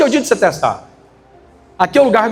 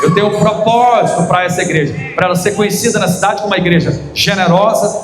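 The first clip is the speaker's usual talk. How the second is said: a pastor booming God's promise. Retold or imitated. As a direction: declare it with full force. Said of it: "E Deus falou assim".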